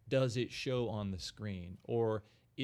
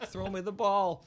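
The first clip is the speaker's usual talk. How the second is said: mock Kansas accent; 8 semitones higher, 6 dB louder than usual. Mocking Walken's Kansas accent.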